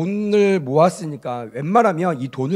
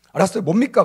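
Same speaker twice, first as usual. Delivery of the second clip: raised, curt customer reply; acted grudging irritation; 4 semitones higher, 4 dB louder, faster than usual. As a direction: give in impatiently as an annoyed customer. Acted customer grudgingly agrees, annoyed. (마지못해 짜증스럽게 대답하는 연기)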